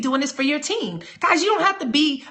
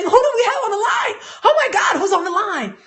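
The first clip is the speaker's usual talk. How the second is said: excited shout; 8 semitones higher than usual. Retold or imitated. Coach imitates his director's hyped introduction, shouting. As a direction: erupt with hype, almost shouting. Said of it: "He has me saying".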